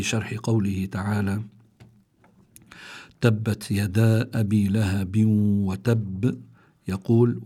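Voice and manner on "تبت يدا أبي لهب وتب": measured tajweed verse with held vowels; Quran recitation. Shown as a demonstration. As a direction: recite the verse evenly, bouncing the final b.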